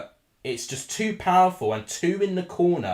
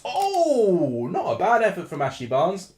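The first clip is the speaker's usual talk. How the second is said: laughing; 4 semitones higher than usual. Real, not acted. Laughs at near miss.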